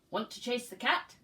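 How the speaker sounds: the dog calls to the spider, loud and eager; loud dog invitation. Acted.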